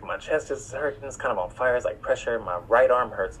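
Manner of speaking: softly voicing his past worry; quiet retold worry. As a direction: murmur it to himself, uneasy. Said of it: "I was li-, like".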